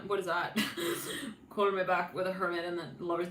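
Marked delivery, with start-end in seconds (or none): none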